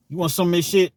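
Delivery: high, loud put-on inmate; mock cellmate offer. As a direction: push the food on him. Cellmate voiced in story.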